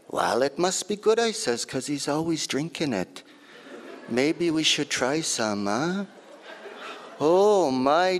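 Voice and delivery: lightly voiced lively old auntie; auntie's voice. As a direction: tell it as your auntie would. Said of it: "this piece is in my auntie's voice".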